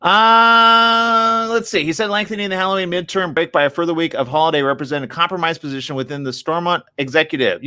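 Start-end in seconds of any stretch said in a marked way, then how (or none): 1.8-7.6 reading aloud. Real, not acted. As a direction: read the article out, slightly raised voice.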